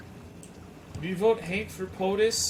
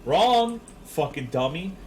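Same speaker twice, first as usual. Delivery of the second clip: DSP impression; 4 dB louder, slower than usual. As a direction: bark wrong, then drop it.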